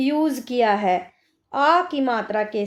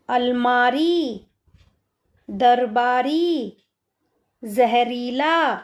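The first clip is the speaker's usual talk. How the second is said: put-on slow reading for kids; much slower than usual. Shown as a demonstration. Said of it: "अब यहाँ पर देखिए बच्चों".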